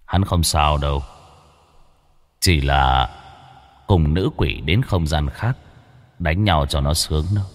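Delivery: low, cold and weighty voice of a demon lord; cold heavy demon voice. Acted. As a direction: speak like an unbothered ancient demon, low and cold. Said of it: "âm thanh lạnh lẽo nhưng nặng nề".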